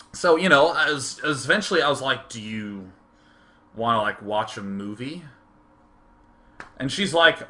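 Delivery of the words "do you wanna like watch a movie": very low, soft, halting question; retold shy young suitor; awkward invitation. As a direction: ask it timidly and haltingly.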